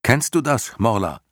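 put-on high eager boy asking; young boy voice. Boy hero questions the turtle.

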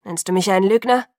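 loud, growling challenge; growled. A narrator's reading. Jacob challenging Alice over the lie, growled. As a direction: growl it as an accusation. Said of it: "knurrte Jacob neben mir".

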